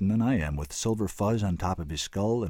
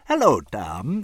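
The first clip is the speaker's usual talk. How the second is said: louder, breezy hello; pleasant greeting; 3 semitones higher, 7 dB louder, much slower than usual. A narrator's reading. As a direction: greet him with easy pleasantness. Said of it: "Carrington said pleasantly".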